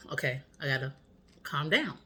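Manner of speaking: low, soft self-soothing; calming herself down. Retold or imitated. Woman to herself in bed while wheezing, quietly calming. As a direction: quietly talk yourself down. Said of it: "calming myself down".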